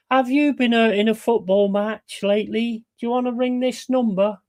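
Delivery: lightly voiced TV ad announcer; mock claims advert. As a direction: pitch it like a cheesy injury-lawyer ad. Parody of an injury-claims ad.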